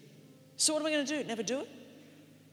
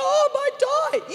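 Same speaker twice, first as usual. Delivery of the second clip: mock fearful Christian; 12 semitones higher, 9 dB louder, slower than usual. I don't want Christians to go.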